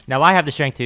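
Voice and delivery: taunting. Real, not acted. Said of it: "repeat of line 149".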